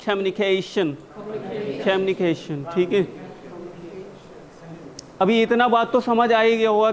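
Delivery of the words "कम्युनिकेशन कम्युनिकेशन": कम्युनिकेशन with a clear "खे" syllable; syllable "खे" shown. Shown as a demonstration. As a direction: break कम्युनिकेशन up, sounding "के" as "खे-इ". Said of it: "खे ही पढ़ेंगे". (कम्युनिकेशन में "खे" साफ़ बोलते हुए)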